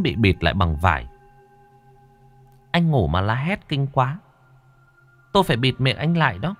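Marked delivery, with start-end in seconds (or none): 2.7-6.5 lightly voiced ghost in a higher pitch; slightly higher character voice, explaining; ghost companion, matter-of-fact. Linh quỷ explains the gag to waking Hùng, higher ghost voice.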